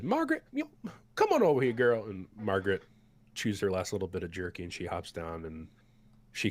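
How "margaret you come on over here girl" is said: put-on much higher, louder folksy old cook voice. The cook hands bowls to the battered party, high and folksy. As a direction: play the big cook fussing over them. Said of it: "he says".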